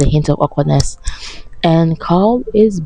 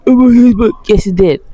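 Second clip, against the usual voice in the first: exasperated outburst; 6 semitones higher, 5 dB louder than usual. Real, not acted.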